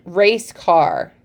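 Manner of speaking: "Race car" said as two even parts; read as two parts. Shown as a demonstration. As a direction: separate "Race" and "car" slightly. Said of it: "read them as two parts".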